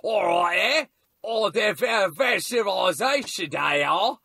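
put-on botched British accent, Cockney-tinged; attempted British accent. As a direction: try a British accent and fumble it. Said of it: "being British, it was kinda like this".

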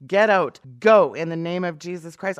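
loud commanding "Get out, go"; casting out demons. Retold or imitated. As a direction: bark the order at a demon. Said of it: "That's how I talk to demons".

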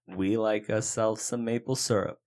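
put-on a Canadian accent that drifts toward Boston; a clumsy Canadian accent, close to Boston. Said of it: "That was almost Boston".

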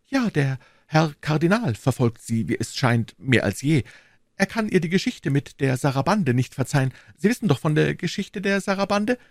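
a nervous little merchant confiding; Bonacieux voice. Acted.

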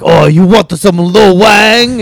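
put-on slow, high caricatured Asian accent; thick Asian accent. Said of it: "doing a really thick Asian accent".

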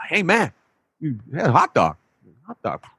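put-on casual New York accent, calling over. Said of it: "New York accent".

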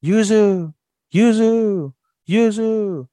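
high, drawn-out falsetto call; imitated calling out. Man calling to lost girl in snow, high imitated call. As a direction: call her name from afar, way up high. Voices a distant calling reply.

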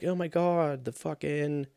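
put-on high, uncertain stab at a British accent; dubious British accent. Player going through the Louvre, muddled British accent. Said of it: "was that a British accent?".

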